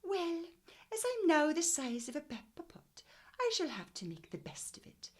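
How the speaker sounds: high Welsh lilt on Mrs Pepperpot's words; Welsh accent. Shown as a demonstration. Teacher rereading Mrs Pepperpot's line in a Welsh accent. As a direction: read it in your best Welsh accent. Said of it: "in your best Welsh accent".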